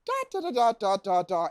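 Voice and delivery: rhythmic beats. Shown as a demonstration. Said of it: "the dialogue goes in beats".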